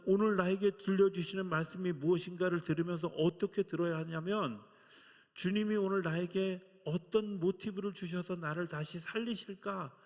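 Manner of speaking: loud, high impassioned preaching; fervent preaching. Real, not acted. Pastor urging his flock to listen, fervent preaching. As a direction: build it into a fervent appeal.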